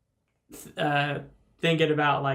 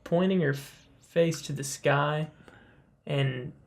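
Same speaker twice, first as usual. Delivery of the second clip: golf commentator. Acted. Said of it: "I don't know why you said it like that".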